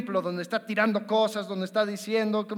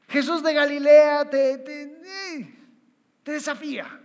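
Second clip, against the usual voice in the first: loud, higher proclaiming of Galilea; emphatic call; 5 semitones higher, 5 dB louder than usual. Real, not acted. Preacher stressing Jesus of Galilee, loud. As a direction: lift it like a rallying cry.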